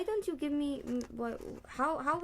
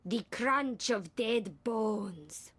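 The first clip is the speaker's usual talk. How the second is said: slow, heavy, overdramatic delivery; laid-on dramatic reading; much slower than usual. Acted. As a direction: lay it on thick. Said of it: "just lay it on".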